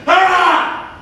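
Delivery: short mock battle yell to show the rush; demo charge yell. Shown as a demonstration. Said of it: "Like this".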